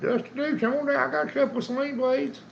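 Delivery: high, lively calling out. Real, not acted. Calling out to a viewer.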